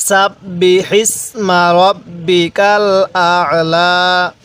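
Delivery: slow chanted verse in a changed tone; Quran recitation. Acted. Teacher reciting surah opening for class, slow chant. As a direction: recite the verse devoutly and slowly.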